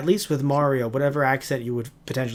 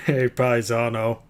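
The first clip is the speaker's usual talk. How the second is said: put-on Italian accent; 2 semitones lower, slower than usual. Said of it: "Lou Ferrigno playing, uh, Mario".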